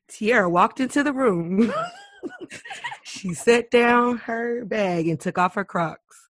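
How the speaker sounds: mock storybook narration of her own actions; playful third-person narrator voice. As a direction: narrate yourself like a novel. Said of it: "folks walking around with narrators".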